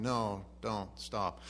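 mild mock deadpan. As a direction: toss it off without caring. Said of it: "But they have no meaning, no feeling".

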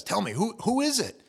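high, loud pleading shout; urgent yell. Retold or imitated. Peter presses John from across the table, urgent loud shout. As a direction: push him to find out, loudly. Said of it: "So he yells across".

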